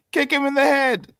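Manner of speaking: high, loud, punchy shout; excited yell. Real, not acted. Fan backing his pick with a head kick, excited shout. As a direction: yell it out like a fight chant. Excited outburst about a fighter's chances.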